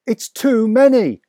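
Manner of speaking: put-on boy worried by the haul. A narrator's reading. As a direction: say it with alarm. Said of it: "I said".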